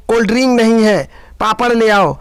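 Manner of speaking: high, loud, fast demands; shouting. Acted. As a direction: bark out the orders quickly. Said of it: "फिर चिल्लाता". (पति का तेज़ और ऊंची आवाज़ में हुक्म)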